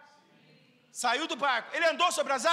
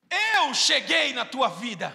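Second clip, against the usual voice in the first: solemn Jesus voice; 6 dB louder, much slower than usual. Retold or imitated. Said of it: "ouvir a voz de Jesus".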